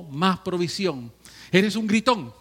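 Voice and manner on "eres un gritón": calling out. Acted. Preacher calls out a shouter.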